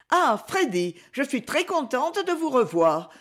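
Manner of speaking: accueil aimable, voix plus aiguë; friendly greeting. A narrator's reading. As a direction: saluer Freddy avec une gentillesse enjouée. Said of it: "dit aimablement lady Isabelle". (lady Isabelle accueille Freddy, aimable et plus aiguë)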